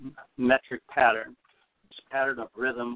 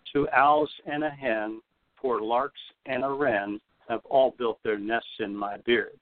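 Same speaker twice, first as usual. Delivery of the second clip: slower, each beat leaned on; slower rhythmic reading. Shown as a demonstration. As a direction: lean on every third syllable. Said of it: "Again, uh, listen for the anapest rhythm".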